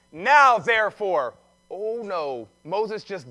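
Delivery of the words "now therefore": loud, slow, emphatic demand; commanding. Acted. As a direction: lay it down to God like an order. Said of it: "Now he's commanding God".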